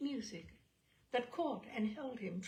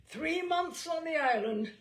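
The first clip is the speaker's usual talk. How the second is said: higher, louder pronouncement; magistrate's sentence; 7 semitones higher, 7 dB louder than usual. Acted. Magistrate sentencing Soapy in court, higher and loud. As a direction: declare the sentence from the bench.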